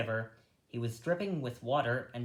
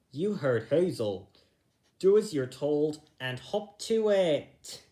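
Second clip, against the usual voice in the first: louder bossy command; stern order; 3 semitones higher, 6 dB louder than usual. Acted. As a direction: order them to get moving. Bigwig orders rabbits.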